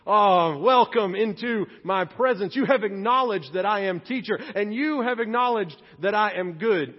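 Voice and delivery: imagined Jesus welcoming flattery grandly; mock grand welcome. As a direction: boom a pompous welcome. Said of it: "Jesus does not respond with".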